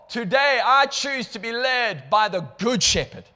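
loud, high, rising cry of need; pleading prayer. Acted. Believer surrenders to God, loud high pleading cry. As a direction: cry out to the shepherd, building. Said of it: "we throw them up in the air and we say".

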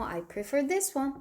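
I prefer this one said very slowly, falling at the end; slow, clear answer for learners; slow model answer. Shown as a demonstration. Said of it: "전 이게 더 좋아요".

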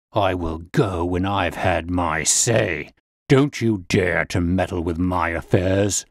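put-on low, slow, threatening old brute; lightly voiced bully leaning in; menacing threats. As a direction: growl the warning. Old man threatens Holmes.

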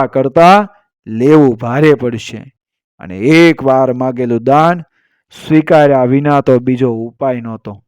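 measured, dramatic Gujarati storyteller narration; folk storytelling. A narrator's reading. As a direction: tell it as a folk legend, with deliberate pauses.

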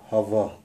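«хава» with a breathed first consonant; original pronunciation. Shown as a demonstration. Teacher shows the original word, initial h in «хава». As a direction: say «хава», keeping the initial h sound. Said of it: "Некоторые слова".

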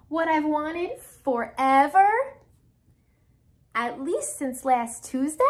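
slow, stretched-out wishing; drawn-out longing. Acted. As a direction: draw out the pigeon's big wish slowly. Reads the pigeon's wish aloud.

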